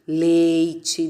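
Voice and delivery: "leite" ending in a chi sound; everyday "leite" with the final E turned to I. Shown as a demonstration. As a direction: say the last syllable of "leite" as chi. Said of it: "falam esse E final com som de I".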